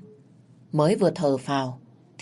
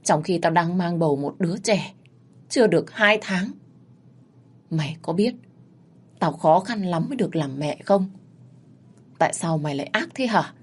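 bitter reproach; 2 semitones higher than usual. Acted. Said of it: "đay nghiến".

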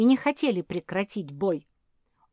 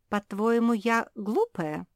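angry; 4 semitones higher, 4 dB louder than usual. Acted. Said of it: "рассердилась Куки".

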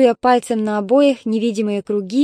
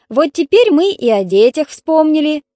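loud, higher sarcastic retort; not lowering her voice; 6 semitones higher, 7 dB louder than usual. Acted. Daughter keeps arguing loudly with her mother. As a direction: keep the volume up, sneering. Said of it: "не сбавляла тона Светлана".

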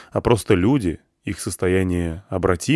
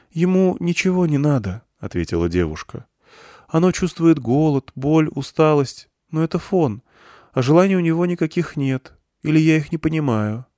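put-on a frightened girl sensing the crowd; young girl Irina, hushed; 7 semitones higher than usual. Irina voiced throughout.

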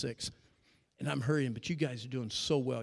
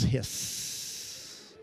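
hiss; 2 semitones lower than usual. Pretend.

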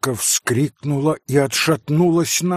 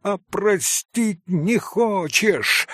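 higher, slow cry of mad reproach; mock shouted reproach, higher and slow; frantic reproach; 10 semitones higher, slower than usual. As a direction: fling the accusation desperately. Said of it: "прокричал Митя Грушеньке с безумным упрёком".

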